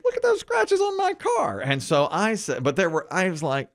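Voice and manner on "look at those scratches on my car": quoting the angry woman. Retold or imitated. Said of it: "she goes".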